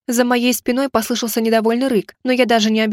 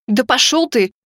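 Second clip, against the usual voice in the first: mild shout; slower than usual. A narrator's reading. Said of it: "закричала".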